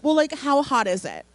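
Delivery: lightly voiced picky San Franciscan; fussy city diner. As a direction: hesitantly haggle over food, mildly precious. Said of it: "how somebody from the city would fuck that up".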